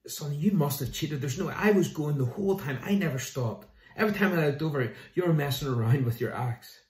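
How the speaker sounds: sputtering disbelief at being beaten; indignant accusation. Acted. Lumberjack accusing the young man of cheating, loud and indignant. And he's convinced.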